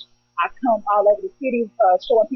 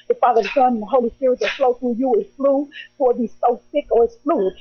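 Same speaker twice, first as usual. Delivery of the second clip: rhythmic spoken word performance; spoken word poem. Acted. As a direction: perform it like slam poetry.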